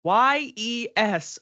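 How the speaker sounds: "Y E S" spelled slowly, each letter hit; all caps yes. Shown as a demonstration. Psychic relaying the answer, "Y E S" spelled slowly. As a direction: stretch out "Y E S" letter by letter. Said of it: "all caps".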